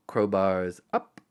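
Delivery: slow, lightly voiced command; a hint of a crook's toast; Hans. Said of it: "Hans said to Carl".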